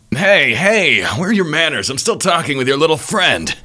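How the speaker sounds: high, put-on villain voice; theatrical high-pitched reproach; taunting villain. Voices the taunting enemy Oster.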